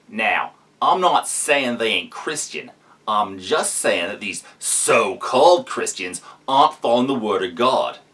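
mocking preacher in Australian accent. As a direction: lay on a broad Australian accent. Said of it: "this excellent Australian accent".

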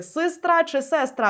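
сестра first with the е closer to и, then with a clear е; two vowel variants. Shown as a demonstration. Teacher voicing a foreigner's doubt over the spelling. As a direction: contrast the two сестра slowly. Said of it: "а як правильно писати".

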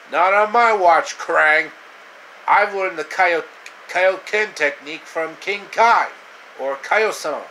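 loud, high heroic shout; a hero's loud challenge; heroic defiance. Acted. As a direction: stand up to him boldly. Hero defies Krang.

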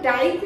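"डाइट" as a single syllable; wrong pronunciation. Shown as a demonstration. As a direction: run "डाइट" together as dite. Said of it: "नहीं बोलते".

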